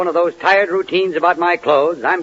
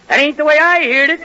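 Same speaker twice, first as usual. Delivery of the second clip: high, loud shouted catchphrase; punchline shout; 8 semitones higher, 3 dB louder than usual. Retold or imitated. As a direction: belt out the punchline. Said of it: "it means".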